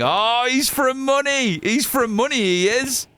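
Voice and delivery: lampoon how people hear him as rich; mock posh voice. Streamer to chat, mocking people who call him posh. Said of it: "They call me posh".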